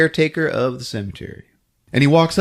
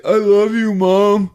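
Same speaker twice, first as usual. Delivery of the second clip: high put-on son voice; mock plaintive high voice; son's voice; 8 semitones higher than usual. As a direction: imitate a son talking to mom. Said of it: "And he's like".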